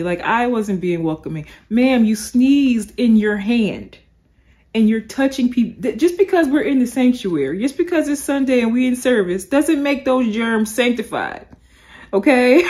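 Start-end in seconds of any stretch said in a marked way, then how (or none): 1.7-12.6 sassy scolding. Retold or imitated. Vlogger lectures the church lady about germs, sassy.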